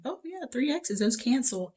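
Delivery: lightly voiced student cancelling too soon; mock careless student. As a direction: toss it off like it's obviously done. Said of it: "be like".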